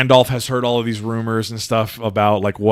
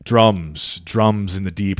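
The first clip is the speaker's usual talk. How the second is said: lightly voiced grave wizard; a touch low and ominous; Gandalf; 4 semitones lower, much slower than usual. Wizard reading the dead dwarf's book, hint of foreboding. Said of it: "and he's just like".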